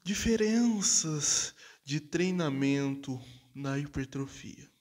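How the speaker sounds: slow sultry narrator voice; slow, seductive title read; sensual voice. Pretend. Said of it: "Vou falar com a voz sensual".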